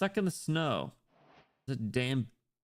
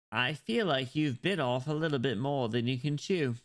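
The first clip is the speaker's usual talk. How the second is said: playful put-on British accent. Streamer threatening to sue over a leak, mock British accent. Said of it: "listen to my British accent".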